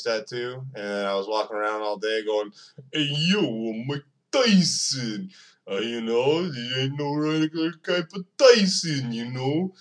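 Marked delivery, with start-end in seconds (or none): 2.9-9.7 Mike Tyson impression. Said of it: "he talks like this sometimes".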